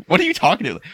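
high, loud laughing outburst; can't believe it, laugh it out; laughing disbelief. Real, not acted. Telling a friend about the mom, laughing disbelief.

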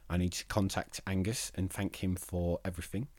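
crying, voice thick with tears; real tears, soft and choked; blubbering. Real, not acted. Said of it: "I'm sorry I'm crying".

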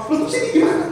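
a hammed-up high squeal; panic, nobody takes the money; mock panicked cry. Someone in the crowd left holding money, in a mock panicked cry.

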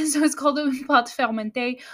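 "pâte fermentée" said with a French accent; French pronunciation. Shown as a demonstration. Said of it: "I have a terrible French accent".

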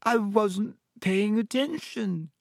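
high, slow theatrical wail; dramatic. A narrator's reading. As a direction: draw it out high with great drama. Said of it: "said Myrtle dramatically".

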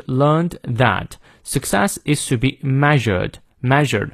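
slow British reading, r silent in "learned" and "measured"; non-rhotic British "learned" and "measured"; British accent. Shown as a demonstration. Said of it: "看一下英式发音". (英式发音慢读，元音后的r不念)

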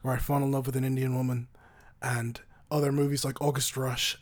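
shaky attempt at an Irish accent that sounds Southern; amateur Irish accent; Jonathan Rhys Meyers. Shown as a demonstration. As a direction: introduce yourself in rough Irish. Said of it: "I gotta channel my Jonathan Rhys Meyers".

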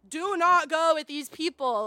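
slow, loud fatherly warning; stern dad. Retold or imitated. Dad warning the kids in the car, slow loud stern warning. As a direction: lay down the law like a dad.

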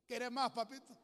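high, loud doting voice; sweet grandma. Retold or imitated. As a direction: coo it like a loving grandmother. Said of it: "mi abuela linda".

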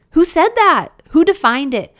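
who said that, said with real indignation; indignant challenge. Real, not acted. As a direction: fire the questions back in outrage. Indignant rhetorical questions.

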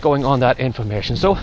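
breathless, walking into strong wind; talking while short of breath. Real, not acted. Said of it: "pardon me, I'm out of breath".

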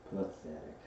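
low, soft and dejected; gloomy Eeyore. A narrator's reading. Old donkey judges his own reflection, gloomily. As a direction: sink into quiet gloom. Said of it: "said Eeyore gloomily".

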